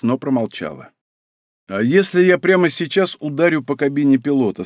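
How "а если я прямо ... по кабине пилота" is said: usual speaking voice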